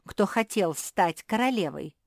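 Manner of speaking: high, loud disbelieving question; astonished. A narrator's reading. Beatrisa learns others wanted to be queen, astonished. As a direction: ask it as if stunned. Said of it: "поразилась Беатриса".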